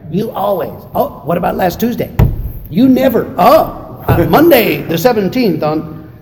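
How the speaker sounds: hammed-up tit-for-tat bickering; mock marital argument. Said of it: "fight with my wife over the always and never".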